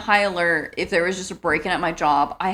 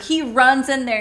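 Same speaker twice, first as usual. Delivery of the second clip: normal talking voice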